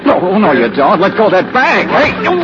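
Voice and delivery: high, rising yells after a thief; an alarmed shout that climbs. Acted. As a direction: call out sharply as the bag goes. Thief grabs his bag.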